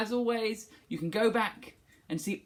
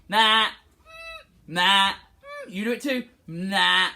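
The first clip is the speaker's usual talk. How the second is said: louder, punchy grunts; loud tongue-out grunt; 3 semitones higher, 6 dB louder than usual. Shown as a demonstration. Teacher doing big faces fast, loud grunts. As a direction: bark it out fast. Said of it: "Let's do it fast".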